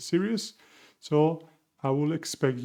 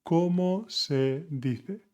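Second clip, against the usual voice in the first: slow and clear; 3 semitones higher, much slower than usual. Shown as a demonstration. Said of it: "slow model phrase".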